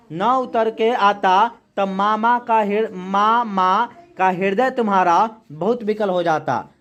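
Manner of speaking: slow, measured poem reading; poem recitation. Acted. Teacher reading a poem to the class, slow recitation. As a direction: recite the verse slowly for the class.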